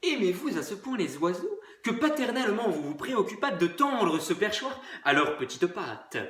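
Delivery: gracefully polite teasing; gracious. Acted. (gracieux et léger)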